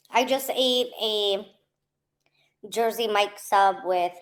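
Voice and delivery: speaking past a burning mouth; half-whispered with spicy mouth; mouth full of hot food. Real, not acted. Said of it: "my mouth is burning".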